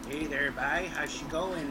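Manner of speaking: Prince Edward Island accent, easy East Coast greeting. Shown as a demonstration. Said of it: "the P E I accent is very much like".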